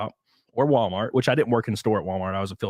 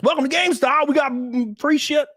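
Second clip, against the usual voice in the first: retail clerk greeting; 12 semitones higher than usual. Retold or imitated. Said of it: "years of retail".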